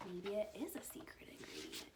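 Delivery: hushed aside; whisper. Real, not acted. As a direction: lean in and whisper it.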